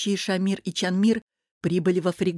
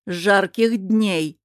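slow, loud, spiteful greeting; angry reply; 5 dB louder, much slower than usual. Acted. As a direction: bite out each word slowly. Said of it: "зло ответила королева Летис". (зло, медленно и громко)

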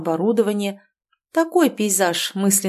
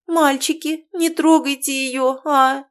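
timid, pleading babble, pitched higher and slower; plaintive plea; 6 semitones higher, 4 dB louder, slower than usual. Acted. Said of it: "жалобно пролепетала Марина".

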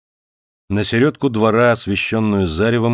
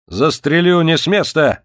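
higher, louder threat with a gun; shouted threat; 8 semitones higher, 5 dB louder than usual. A narrator's reading. Officer threatening the homeowner at gunpoint, shouting. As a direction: yell it with the revolver raised. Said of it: "закричал он".

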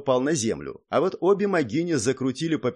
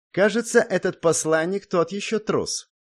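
higher-pitched scornful lady's voice; contemptuous; 7 semitones higher than usual. A narrator's reading. One guard to the other about the envoy, contemptuous. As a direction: sneer it with a raised pitch. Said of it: "фыркнула презрительно одна из дам".

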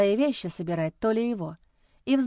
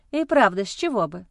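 smirking. Acted. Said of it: "усмехнулась я".

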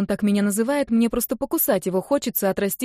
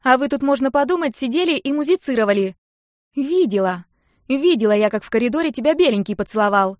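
higher, louder needling little sister; obnoxious tattling voice; 5 semitones higher, 5 dB louder than usual. A narrator's reading. Little sister tells on older girl, obnoxious. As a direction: needle her in a nasty tell-tale voice. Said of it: "противным голосом добавила".

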